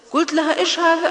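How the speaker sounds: high, loud mock telling-off; husband pretending to scold wife, loud mock anger. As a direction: raise your voice in playful fake anger. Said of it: "أمزح معها من باب المداعبة".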